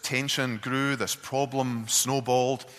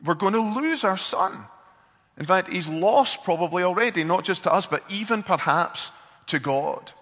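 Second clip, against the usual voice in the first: higher and louder pleading rant; upset yelling; 7 semitones higher, 4 dB louder than usual. Retold or imitated. Wife warns husband about their son, upset loud. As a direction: keep the raised, anguished voice going. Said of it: "she's yelling at him at this point".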